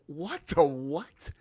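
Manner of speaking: slow, drawn-out disbelief; mock bewilderment, stretched right out; incredulous. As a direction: imitate two baffled friends. Both friends baffled by his plan.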